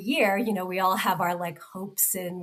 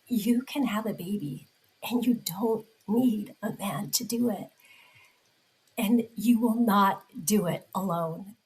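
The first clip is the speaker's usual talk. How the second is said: getting emotional. Real, not acted. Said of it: "I'm gonna get emotional again".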